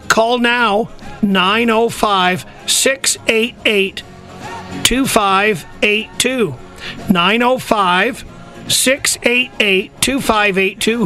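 slow, deliberate phone number read; radio contest promo. Acted. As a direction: spell out the number slowly. Radio host reading contest number.

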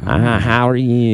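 lightly voiced old lady; a hint of a sweet granny greeting; man doing granny voice. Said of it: "That was just my old lady voice".

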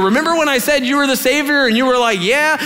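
high, incredulous protest; indignant rebuke. Retold or imitated. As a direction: act out a disciple appalled at his master. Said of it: "begins to rebuke him".

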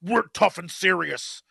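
mock tough guy. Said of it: "rarely deviated from, like".

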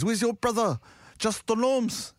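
high-pitched mock stranger's voice; imitating a stranger. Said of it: "And he goes".

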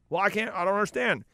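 high, quick, flustered doctor; confused physician. Acted. Physician failing to follow Doctor Ernst's explanation, high flustered confusion. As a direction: blurt it in mock bewilderment. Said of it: "phone calls with physicians".

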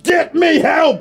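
high, slow strained cry for help; a shot soldier begging for a medic; wounded soldier gasping. Pretend. Acting out last words on screen.

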